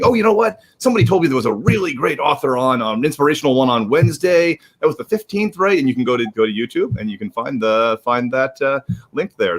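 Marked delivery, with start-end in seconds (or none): 0.0-5.8 imagined viewer. Retold or imitated. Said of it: "if you're looking".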